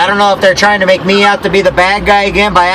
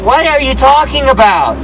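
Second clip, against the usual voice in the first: higher-pitched incredulous retort; retold bafflement; 6 semitones higher than usual. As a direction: act out being totally baffled by her. Retold baffled reply to her claim.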